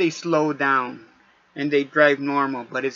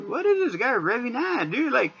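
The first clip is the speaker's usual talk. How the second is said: fed-up yell at the driver ahead; exasperated yell; 9 semitones higher than usual. Retold or imitated. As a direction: yell at the revving fool. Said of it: "I'm like".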